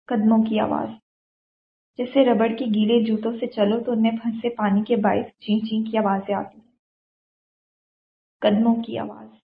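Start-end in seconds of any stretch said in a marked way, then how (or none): none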